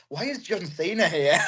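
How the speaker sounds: retold disbelief, pitch swooping up into laughter; high laughing incredulity; baffled exclamation. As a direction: act out a baffled "what is going on", cracking up. Retells his baffled reaction, laughing.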